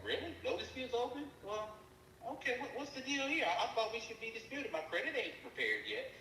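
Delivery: high, disbelieving retelling; incredulous. Retold or imitated. Reading dispute page, she asks in high disbelief. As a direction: act shocked at the dispute page. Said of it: "I'm like".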